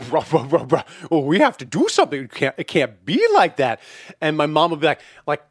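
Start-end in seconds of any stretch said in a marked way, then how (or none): 0.1-3.8 grumbly mock dad, low gibberish into fussing; grumbling dad. Son mimicking his dad over a wobbly table leg, grumbling. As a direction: imitate a grumbling, insistent father. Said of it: "my dad will be like".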